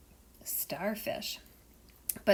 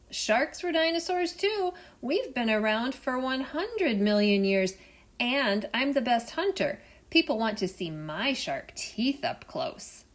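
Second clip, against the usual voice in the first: higher, louder cocky shark; shark bragging; 4 semitones higher, 5 dB louder than usual. Acted. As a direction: puff up and boast about your teeth.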